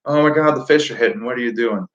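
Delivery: hammed-up fluster; mock panic. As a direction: act out being caught off guard, quickly. Acts out panic over dying battery.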